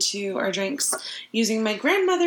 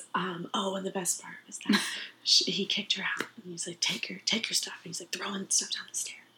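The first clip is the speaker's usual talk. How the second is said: hushed, whispered speech; 8 dB quieter than usual. Speaker telling a story while trying not to laugh, whispering. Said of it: "You're whispering too much".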